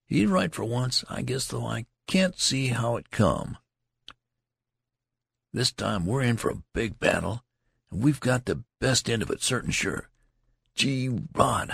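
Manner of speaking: lightly voiced soldier airing a grievance; complaining soldier. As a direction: gripe about the marching. The loud soldier boasts.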